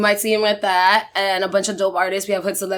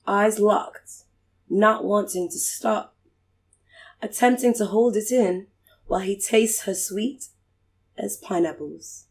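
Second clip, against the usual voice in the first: poetry reading; 3 dB quieter than usual. Pretend. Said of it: "Do it in the British accent".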